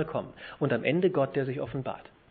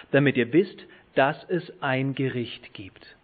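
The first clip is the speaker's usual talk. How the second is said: forceful, louder recitation stressing "Schwert"; emphatic scripture reading; 5 dB louder than usual. Shown as a demonstration. Preacher reading Job's warning to friends, forceful emphasis. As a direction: declaim it, slowing on "vor dem Schwert" and "ein Gericht gibt". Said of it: "ich betone jetzt das".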